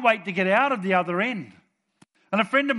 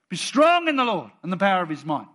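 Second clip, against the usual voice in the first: loud, firm proclamation; bold declaration; 2 semitones higher, 6 dB louder than usual. Shown as a demonstration. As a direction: declare it with full assurance. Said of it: "when you say it like that".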